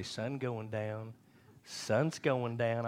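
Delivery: very slow, drawn-out words; imitated pointed reminder. Wife's pointed reminder, retold.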